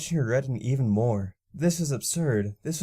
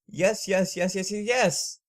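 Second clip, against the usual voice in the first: high, bouncy yeses; giddy repeated yes; 8 semitones higher, 3 dB louder, slower than usual. Acted. Mare hopping like a foal, giddy and high. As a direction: hop around like a foal.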